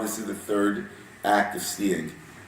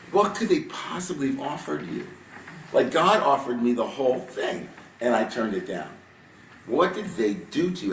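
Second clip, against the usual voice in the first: pitched up, asking in disbelief; incredulous; 3 semitones higher than usual. Retold or imitated. Moses asking Aaron about the people, raised and incredulous. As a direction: Moses stunned by his brother's betrayal. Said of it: "Is he incredulous?".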